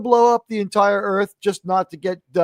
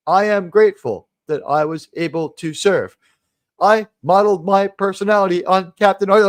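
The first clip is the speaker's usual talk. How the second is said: bad acting. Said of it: "excuse the bad acting".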